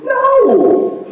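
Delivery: high, loud refusal; a sharp high "No!"; high shouted no. Retold or imitated. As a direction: shout the no right back at him. Refusing the guy, retold.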